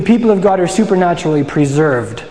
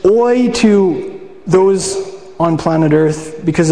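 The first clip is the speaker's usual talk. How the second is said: prophetic oi; slower than usual. Retold or imitated. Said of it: "So he says".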